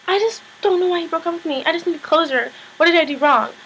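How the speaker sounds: high-pitched imitation of tearful whining; mock crying. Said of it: "Tori starts crying, bad acting, crying".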